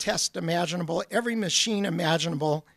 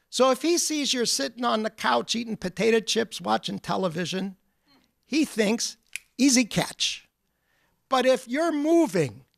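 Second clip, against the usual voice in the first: put-on Polish accent; 3 semitones higher than usual. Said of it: "he would say in his wonderful Polish accent".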